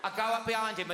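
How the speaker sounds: ordinary talk, nothing marked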